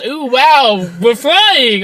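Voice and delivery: lightly hammed-up delight; mock wonder. Retelling heroine on the flying horse, mock amazed. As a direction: imitate an easily thrilled heroine.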